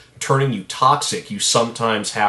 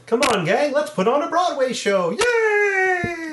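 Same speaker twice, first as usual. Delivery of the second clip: much higher, bright Kermit voice ending in a squeaky yay; be Kermit rallying the gang; high frog voice, cheering; Kermit impression; slower than usual. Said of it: "You can do the higher pitch than me".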